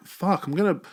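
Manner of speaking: a playful accusing "thanks a lot"; mock grumpy surrender. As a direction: grudgingly give in, then scold him sarcastically. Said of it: "I was like".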